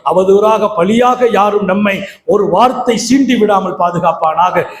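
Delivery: measured, rhythmic prayer cadence; closing supplication. Acted. Preacher prays for congregation and their families, closing supplication. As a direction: recite each blessing as a steady plea.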